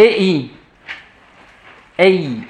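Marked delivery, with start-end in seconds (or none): 2.0-2.4 "E I" as two vowels gliding in one breath; diphthong E-I. Shown as a demonstration. Teacher models Latin diphthong for class, gliding E-I. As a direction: say "E I" in one emission, E sliding into I. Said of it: "C'est quand même pas aïe".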